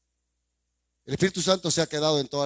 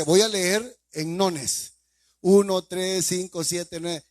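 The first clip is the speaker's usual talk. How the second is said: mock slow counting; 3 semitones higher, 3 dB louder, much slower than usual. Mocking counting readers.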